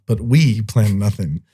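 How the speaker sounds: slow, with "we" set apart; stress on WE. Real, not acted. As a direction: lean on "we" in contrast. Contrasts Brian with we.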